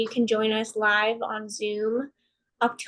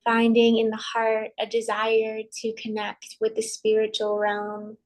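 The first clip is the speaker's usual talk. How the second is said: calm, measured meditation voice with long pauses; guided meditation. Acted. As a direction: guide them gently inward, leaving space between phrases.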